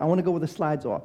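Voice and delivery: lightly voiced pouty little girl; a hint of a whiny child; imitating sulky toddler. Father imitates his little daughter, mildly pouty. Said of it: "She talked like that".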